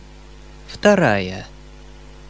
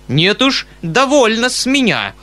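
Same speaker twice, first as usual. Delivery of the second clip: high, raised trembling outrage; indignant; 9 semitones higher, 3 dB louder than usual. Acted. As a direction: refuse in a huff. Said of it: "дрожа от негодования".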